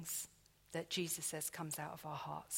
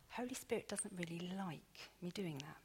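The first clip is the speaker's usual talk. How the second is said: whispered aside; 7 dB quieter than usual. Real, not acted. Confiding aside about the Spirit.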